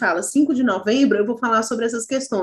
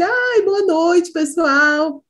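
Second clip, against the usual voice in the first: mock student greeting; 5 semitones higher, much slower than usual. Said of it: "você começou assim".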